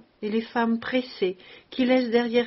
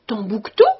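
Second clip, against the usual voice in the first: sudden louder recognition; exclaiming; 8 dB louder than usual. A narrator's reading. Officer suddenly recognizing the giant, a louder exclamation. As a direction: blurt the name as it comes back. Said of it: "il s'écria".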